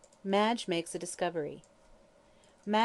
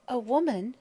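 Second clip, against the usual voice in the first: faltering; 5 semitones higher than usual. Acted. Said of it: "she faltered".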